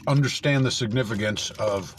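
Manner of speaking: talking with mouth full of snacks. Real, not acted. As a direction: speak around a mouthful of food. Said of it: "I'm gonna be talking with my mouth full".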